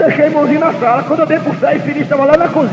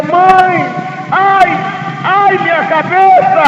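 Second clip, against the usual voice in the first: put-on boy crying out in pain; 4 semitones higher, much slower than usual. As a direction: cry out to mother, stretching the ai. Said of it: "chegou em casa e gritou".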